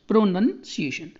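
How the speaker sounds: slow प्रोनाउंसिएशन with short "nun"; correct pronunciation. Shown as a demonstration. Teacher showing there is no "noun", slow careful प्रोनाउंसिएशन with "nun". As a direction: spell out प्रोनाउंसिएशन by sound, pro-nun, si-ay-shun. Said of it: "यहाँ पर नाउन नहीं है".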